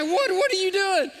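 loud, high, stammered question; astonished. Retold or imitated. Recipient to giver of twenty dollars, astonished. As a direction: imitate someone floored by the gift. Retold astonished reaction to the gift.

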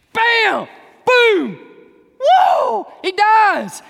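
high, loud bam and boom; loud sound effects. Acted. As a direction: hammer out the blows. Acting out the stone hitting.

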